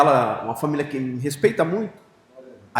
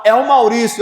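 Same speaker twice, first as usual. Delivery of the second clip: higher, louder call of an inner voice; 7 semitones higher, 9 dB louder than usual. Retold or imitated. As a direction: voice from within insisting. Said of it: "Falou dentro do meu coração". (voz interior chamando, mais alta)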